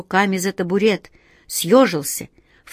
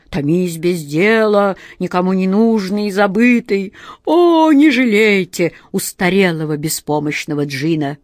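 self-pitying genie; 3 dB louder than usual. Acted.

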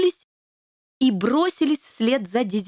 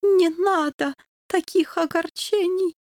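put-on slow, high, foreign-accented dying king; dying dog king; 7 semitones higher than usual. A narrator's reading. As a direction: speak slowly with the last of his strength. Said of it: "вновь заговорил героический доберман".

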